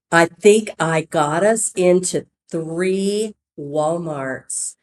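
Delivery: put-on slow, drawn-out Southern accent. Saleswoman calls about getting into Walmart, slow Southern accent. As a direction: imitate her Southern accent, stretching the words. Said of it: "with her Southern accent".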